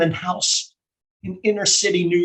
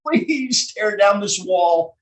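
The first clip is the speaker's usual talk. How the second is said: mock scream out the window; slower than usual. Child pleading with a neighbour out the window, half-screamed. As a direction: cry out a slow, drawn-out plea. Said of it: "I pulled up the window and I screamed".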